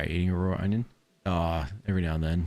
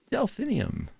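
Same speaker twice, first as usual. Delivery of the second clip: high, bright call of a name; slower than usual. Real, not acted. Player calling out to a villager in the game, high call. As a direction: hail her from across the map.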